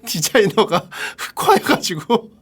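slow words squeezed through laughter; laughing while talking. Real, not acted. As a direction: crack up while telling your theory. Cracks up at imagined designer. (웃음 터져서 겨우 말함)

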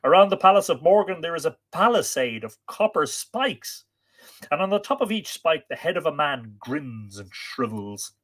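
dramatic narrated plea, starting high and loud; urgent warning that settles as it goes on; urging. A narrator's reading. Lover dissuading him from that drear journey, urging. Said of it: "she urged".

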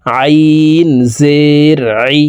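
"আইন" pressed from the middle of the throat, slow; pressed ain. Shown as a demonstration. Teacher showing pupils the throat ain. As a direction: squeeze "আইন জের আই" from mid-throat. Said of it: "হলকের মধ্যখান থেকে চাপ দিয়ে পড়তে হবে".

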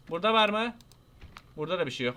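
normal talking voice

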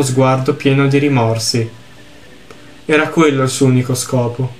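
lettura misurata di un racconto triste; narrazione letta. A narrator's reading. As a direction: leggi la storia con tono composto. Legge ad alta voce il testo del gioco. (narrazione composta, da racconto)

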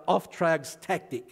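slow, careful German-accented Auftragstaktik; mangled German accent on Auftragstaktik. Shown as a demonstration. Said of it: "I'm gonna torture my, uh, German accent".

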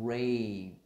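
"grape" loud, the gr run slowly into the vowel; R blend demo. Shown as a demonstration. Teacher linking g and r, exaggerated blend. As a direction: round into the r and burst out "grape". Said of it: "Nó sẽ nối giữa".

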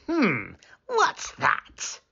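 put-on slow, high curious boy voice; wondering storybook boy. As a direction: draw it out, puzzled and high. Greedy boy smells porridge.

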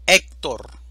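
Héctor dicho fuerte, golpe en HÉC; ejemplo enfatizado. Shown as a demonstration. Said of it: "llanas o graves con tilde". (Héctor, con fuerza en HÉC)

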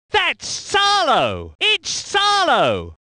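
slow, stretched exclamation of the name; excited race call. Acted. Commentator hailing Salo, drawn-out excited call. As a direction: draw the surname out in excitement.

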